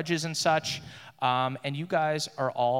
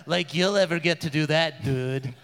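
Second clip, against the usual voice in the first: mocking guard; 3 dB louder than usual. Guards mock prisoner.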